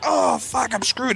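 high, hammed-up dread; exaggerated high-voiced alarm; mock panic. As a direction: imitate a kid caught out. Kid sees dad's car coming.

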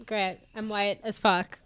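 slow, deadpan, underwhelmed "great"; imagine a letdown and say it slowly, unimpressed; mock disappointment. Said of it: "I'm gonna be like".

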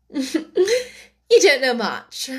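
haughty duchess voice; lofty noblewoman, condescending; imperious plummy grande dame. A narrator's reading. Duchess voice in story.

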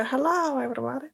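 Dr. Nick impression. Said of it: "Hi, doktor Nick".

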